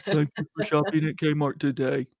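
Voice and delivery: flat, bored cashier voice; lifeless tone. Retold or imitated. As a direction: rattle it off with no feeling. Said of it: "usually in some kind of lifeless tone".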